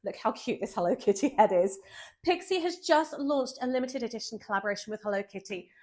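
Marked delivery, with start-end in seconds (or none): none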